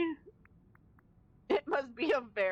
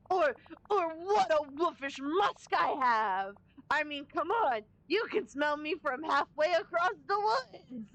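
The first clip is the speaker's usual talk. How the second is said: mock wolf boasting; 4 semitones higher than usual. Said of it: "very rough on your throat".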